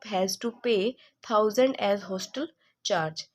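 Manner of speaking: slow, deliberate read-aloud of a textbook question; reading the problem. Acted. Tutor reading the exercise to students, slow dictation. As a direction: dictate it word by word so students can follow.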